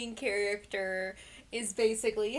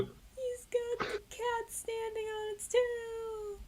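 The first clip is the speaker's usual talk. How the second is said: laughing; 13 semitones higher, 4 dB quieter, slower than usual. Real, not acted. Cracking up at funny pose.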